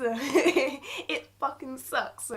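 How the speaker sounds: slow, laughing it out; a wry laugh at how bad things are. Real, not acted. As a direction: laugh bitterly through the words. Laughing at her own bitter line.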